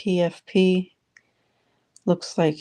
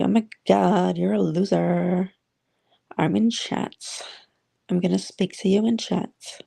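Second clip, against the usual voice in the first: put-on light Valley boy voice with a dragged-out whiny ending; lightly mock a California valley boy; Multimac impression. Host imitates Multimac's voice for the room, a hint of Valley boy. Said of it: "That's how he sounds".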